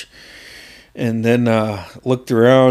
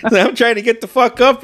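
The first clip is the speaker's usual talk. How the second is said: laughing while talking; 11 semitones higher than usual. Real, not acted. Laughing at the memory.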